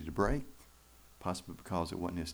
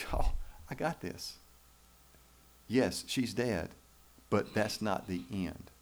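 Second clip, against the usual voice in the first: slow, easy reassuring Jesus; unhurried calm assurance; calm reassurance; slower than usual. Acted. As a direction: tell them gently you've got this. Jesus voiced reassuring at deathbed.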